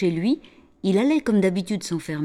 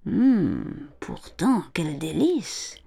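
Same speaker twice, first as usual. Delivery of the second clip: whispered delight; slower than usual. Acted. Mother tastes, amused.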